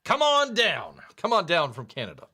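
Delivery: game-show announcer's big call-out; Bob Barker. Acted. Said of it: "Learn from the great Bob Barker".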